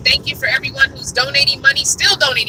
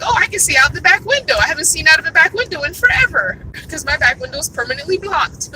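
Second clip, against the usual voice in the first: delighted; 4 semitones higher than usual. Pretend. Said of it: "It's like".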